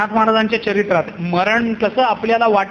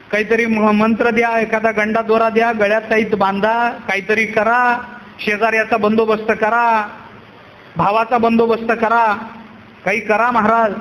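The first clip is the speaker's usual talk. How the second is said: lower, level, repetitive plea; pleading devotee; 4 semitones lower than usual. Acted. Householder begs Nath Maharaj for any remedy, monotone pleading. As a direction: list each request in the same sing-song tune. Man pressing the saint for remedies.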